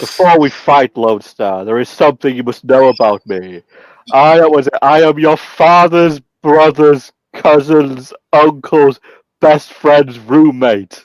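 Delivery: lightly acted, slow portentous reveal; mock-dramatic villain. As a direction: draw out each relation like a grand revelation. Acting out film villain's grand revelation.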